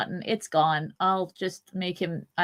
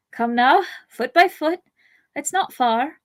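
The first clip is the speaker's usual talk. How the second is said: higher, louder coaxing; encouraging; 7 semitones higher, 7 dB louder than usual. Acted. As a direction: urge a hurt friend onward. Pippin urging Merry on.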